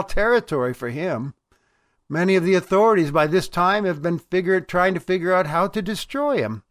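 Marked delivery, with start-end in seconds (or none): none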